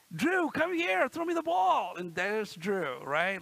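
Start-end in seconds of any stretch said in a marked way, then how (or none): 0.1-2.0 higher, louder playground call. Retold or imitated. Boy calling to his friend Drew during play, higher and louder. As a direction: call across the yard to a friend. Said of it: "I'd say".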